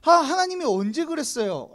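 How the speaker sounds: mock indignant comeback; confrontational retort. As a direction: throw the question back defiantly. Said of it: "되게 공격적으로 나오는데요".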